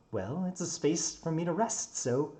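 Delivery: lightly voiced young man easing into an excuse; sheepish builder. Builder sheepishly explains himself.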